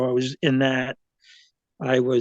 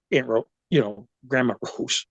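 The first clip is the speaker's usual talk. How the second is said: awkward; 2 semitones lower than usual. Retold or imitated. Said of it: "kinda hard getting out of my mouth".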